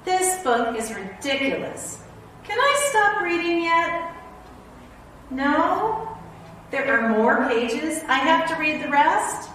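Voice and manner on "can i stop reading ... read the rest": higher, whiny begging; hammed-up protest; mock pleading. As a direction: whine like a trapped grown-up. Reader begging to stop.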